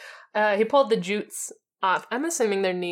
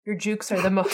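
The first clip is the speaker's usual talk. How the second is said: laughing. Real, not acted. Reading romantic line, breaks laughing.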